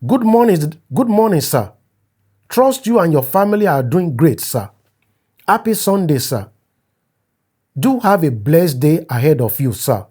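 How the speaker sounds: overly polite message read aloud; a hint of a fawning younger friend; reading a deferential message. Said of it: "Following day".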